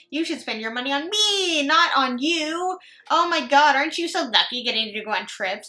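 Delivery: lightly hammed-up envy-baiting brag; mocking imitation. Mocking the poster's bragging.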